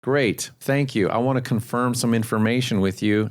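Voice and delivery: measured, confirming tone after the greeting; calm authority. Shown as a demonstration. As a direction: drop from curiosity into composed, assured statements. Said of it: "move into calm authority".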